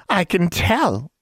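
put-on high, cackly old witch voice; old hag voice. Old woman tempts Alexandra at the station, high hag voice. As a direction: hag leaning in, sizing up a girl. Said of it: "the old woman said".

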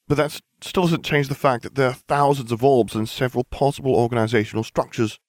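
high girlish voice, lightly voiced; a young witch, curious; Hermione voice. A narrator's reading.

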